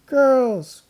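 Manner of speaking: loud, high scolding call; counselor shouting. A narrator's reading. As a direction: cry out to stop them. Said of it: "cried the counselor".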